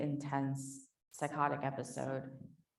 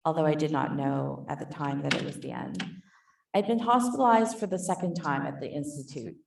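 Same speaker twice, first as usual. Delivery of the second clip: reading aloud. Shown as a demonstration. Author reading her essay to the conference audience, measured reading voice. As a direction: read the excerpt aloud to the panel, calm and steady. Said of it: "So I'm just gonna be reading this very small bit".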